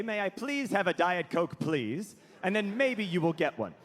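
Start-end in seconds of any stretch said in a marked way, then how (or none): 0.0-2.2 plain, meek, well-raised asking; polite request. Shown as a demonstration. Well-raised person asking for a drink, polite. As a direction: ask nicely, softening the last please. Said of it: "you're supposed to say".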